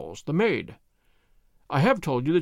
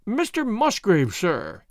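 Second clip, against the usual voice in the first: hoarse with emotion; 4 semitones higher, much slower than usual. Acted. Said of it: "in a voice which was hoarse with emotion".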